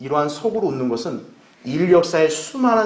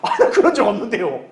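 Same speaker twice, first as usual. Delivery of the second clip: higher, hammed-up frightened excuse; mock scared denial; 4 semitones higher than usual. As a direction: play scared sinners denying it, amused. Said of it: "그들이 무서워서 뭐라 하겠어요".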